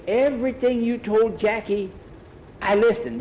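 put-on high, insistent boy's voice; earnest kid persuading an adult; eager pleading. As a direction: plead your case with pitch held high. Skeeter pleads to be allowed riding.

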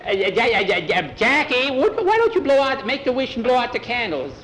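high, loud, stammering urgency; frantic urging. Acted. Skeeter begs Jackie to blow out shrinking candles, frantic high urging. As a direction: stumble over the name, then urge in a high voice.

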